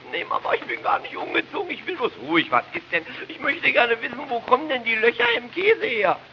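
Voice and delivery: put-on high, loud childish yelling; shouting child. Boy yelling at parents about cheese holes, loud and high. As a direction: bawl the question like a stubborn boy. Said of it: "brauchst du doch nicht zu brüllen".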